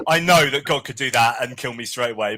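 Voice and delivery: lightly acted stubborn defiance; mock-defiant rebel. Lucifer knowing God could kill him, mock defiant. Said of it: "it's like".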